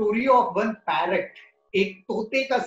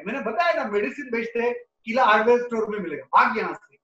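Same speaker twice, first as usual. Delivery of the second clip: angry shopkeeper; much faster than usual. Acted. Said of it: "अब medical store वाले को गुस्सा आ गया".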